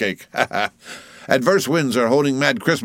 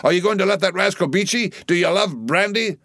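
high-pitched, excited goading of rowers; rousing cry; 8 semitones higher than usual. A narrator's reading. Stubb goads his oarsmen to beat the German, rousing cry. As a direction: harangue the crew, pitch soaring on each urging. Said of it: "cried Stubb to his crew".

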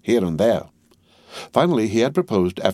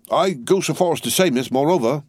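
higher, rough earnest servant voice; Jerry Cruncher; 7 semitones higher than usual. A narrator's reading. Cruncher answers Miss Pross, rough and earnest. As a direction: voice the trembling servant.

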